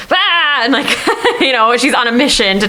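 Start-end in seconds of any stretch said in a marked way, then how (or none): 0.1-0.6 battle yell. Acted. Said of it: "So she's just like".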